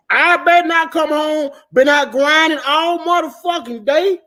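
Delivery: mock stern demand. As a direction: lay down the law half-joking.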